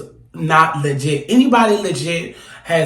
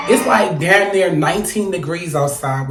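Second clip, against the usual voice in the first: shouted complaint. Real, not acted. Ranting about the cold.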